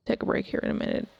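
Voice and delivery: yawning through the words. Real, not acted. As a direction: talk mid-yawn, breathy and voiceless. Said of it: "I'm yawning".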